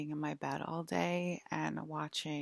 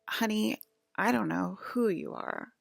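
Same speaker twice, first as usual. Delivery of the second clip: louder, mock-bitter dismissal; grumpy old lady; 4 semitones higher, 5 dB louder than usual. Old lady dismissing the stranger at her door, mock grumpy. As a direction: imitate a bitter old woman brushing someone off. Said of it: "extremely grumpy and bitter".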